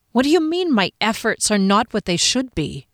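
mildly affronted questioning; a touch of offended astonishment; indignant disbelief. Acted. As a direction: throw the accusation back as a challenge. Heroine challenges captain's formal accusation.

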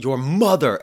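hammering the point home; exclamatory read. Retold or imitated. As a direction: read it like it ends in an exclamation mark. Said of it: "exclamation point".

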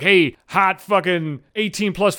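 slow, put-on seductive spam-bot read; mock sexy spam voice. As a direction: drawl it like a cheesy porn bot. Spam account greeting read out.

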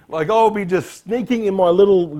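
chuckling through the words; laughing. Real, not acted. Preacher picturing himself cringing, laughing. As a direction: laugh it off awkwardly.

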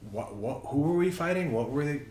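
baffled. Acted. Podcaster voicing a confused movie viewer's questions, baffled.

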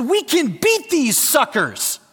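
S's slurred like F's through a mouthguard; mouthpiece lisp. Retold or imitated. Player rallying team through mouthguard, mock lisp. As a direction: talk round a football mouthpiece. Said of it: "I had my mouthpiece in".

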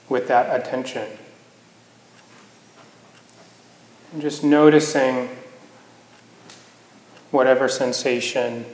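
unhurried meditation guidance with long pauses; guided meditation. Acted. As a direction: gently guide them into the body, leaving space between phrases.

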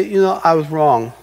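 acted contrite confession; humble apology. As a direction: own up quietly and simply. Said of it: "when you go up and say".

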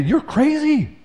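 high, mocking "you're crazy"; a light jab of mock disbelief; mock accuser. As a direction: toss it off like a scoffer.

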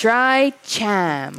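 drawn-out Boston CHAM, no R; mimicked Boston accent. Co-host teasing her missing R, mimicked Boston accent. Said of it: "there's an R in there".

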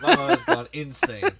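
laughing, high and loud. Real, not acted. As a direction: say it through real laughter. Laughing at mother's rant.

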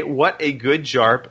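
put-on accidental stab at an English accent on "jarb"; botched English accent. Podcaster reading a listener's email aloud, botched English accent. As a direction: attempt an English accent, mangling job into "jarb". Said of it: "that's my English accent attempt".

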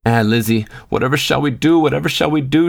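high, pleading wail; mother-in-law crying out in distress to Lizzie, high pleading; anxious cry. A narrator's reading. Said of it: "she cried".

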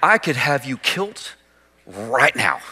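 lightly hammed-up East Texas drawl, slow; a hint of an East Texas bully; mock East Texas threat. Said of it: "or if you're in East Texas".

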